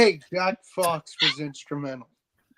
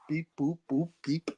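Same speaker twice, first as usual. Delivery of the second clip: robot beeps; 4 dB quieter than usual. Pretend. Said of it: "broken Rob robot".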